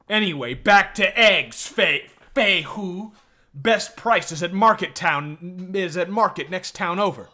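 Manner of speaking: loud, high, slow mock-Chinese accent; pushy shopkeeper bellowing in a caricatured Chinese accent; hammed-up Chinese accent. Shopkeeper nagging Fei Hu about eggs, loud Chinese accent. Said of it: "racist Chinese accent".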